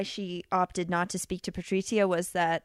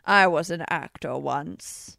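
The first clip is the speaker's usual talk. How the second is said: haughty actor voice; 5 semitones lower than usual. Retold or imitated. Imitating Irons, slow and haughty.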